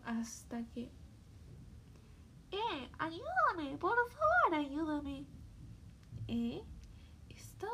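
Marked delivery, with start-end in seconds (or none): 2.5-5.3 calling for help. Acted. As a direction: call out from inside the armor. Trapped tin man calling out.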